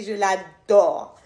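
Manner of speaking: slow, fond first take; tender. Real, not acted. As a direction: linger over it lovingly. Says she adores her sister.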